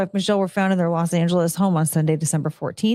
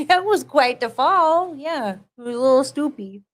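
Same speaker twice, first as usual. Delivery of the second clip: amused pet talk; 6 semitones higher than usual. Real, not acted. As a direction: chuckle fondly at the clumsy pet.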